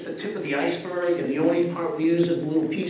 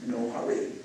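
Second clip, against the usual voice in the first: lizard brain voice; 6 semitones lower, 5 dB quieter than usual. Retold or imitated. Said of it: "the lizard brain goes".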